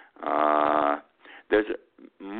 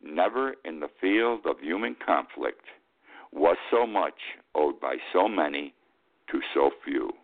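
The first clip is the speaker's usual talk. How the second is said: quoting Churchill; 4 semitones lower than usual. Retold or imitated.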